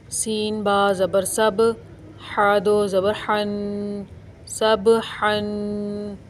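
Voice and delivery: slow, drawn-out syllable spelling; spelling recitation. Shown as a demonstration. Teacher spells सब हन letter by letter, slowly chanted. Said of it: "जैसे मैं आपको पढ़कर अभी बताती हूँ".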